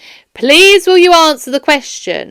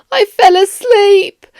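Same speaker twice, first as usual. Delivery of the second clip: higher, slow, deliberate repeat; louder repeat; 8 semitones higher, 3 dB louder, slower than usual. Acted. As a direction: say it again so he hears it clearly. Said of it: "Can you repeat it out louder?".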